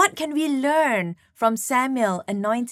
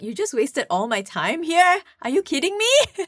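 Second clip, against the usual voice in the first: mock frustrated; 4 semitones higher than usual. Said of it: "He's like".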